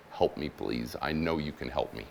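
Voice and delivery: low, softly spoken plea for help. Acted. Woman looking up to Jesus for help, quiet plea.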